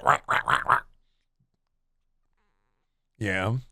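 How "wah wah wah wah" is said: imitated cat squeaks. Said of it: "She's go".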